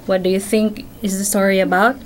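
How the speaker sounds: put-on bright questioning tone for a child; gentle prompting of a young reader; asking a child, reading aloud. Shown as a demonstration. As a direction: coax the child to guess the story. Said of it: "And then you ask question firsthand".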